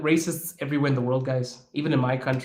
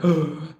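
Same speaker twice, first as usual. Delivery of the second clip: mock shocked gasp. Imitating immigrants' shock at him.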